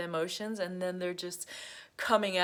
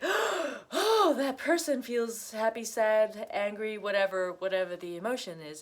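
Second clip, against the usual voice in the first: gasping realisation; 3 semitones higher than usual. Retold or imitated. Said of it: "and they feel like".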